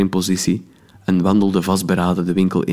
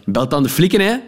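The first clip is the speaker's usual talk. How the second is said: a higher, defiant snap; cocky snap; 7 semitones higher than usual. Acted. Narrator snaps at the woman, defiant. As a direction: dare her to call the police. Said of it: "snauwde ik baldadig".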